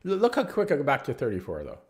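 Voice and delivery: high, loud and pleased; excited boasting. Real, not acted. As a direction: show off the fast climb. Brags about quick catch-up.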